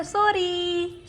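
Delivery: put-on coaching a toddler to apologise, drawn-out slow; drawn-out sorry. Shown as a demonstration. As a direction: say sorry very slowly, as a lesson. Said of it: "આપણે કેમ કહેવું પડે".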